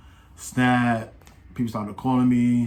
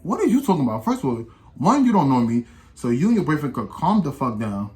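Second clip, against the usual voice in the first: retold confrontation, pitched up at first; not being quiet; 3 semitones higher, 3 dB louder than usual. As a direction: act out talking back forcefully, starting high. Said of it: "I'm not being quiet".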